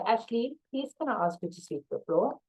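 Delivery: a quiet, kind please; softened tone. Shown as a demonstration. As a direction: ask gently, as to a shy colleague. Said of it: "all I'll do is soften my tone and say".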